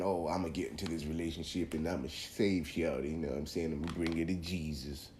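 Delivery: lightly put-on stock dude voice; go-to guy voice. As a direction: slip into your default guy-character voice, only a little. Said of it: "that's my go-to guy voice".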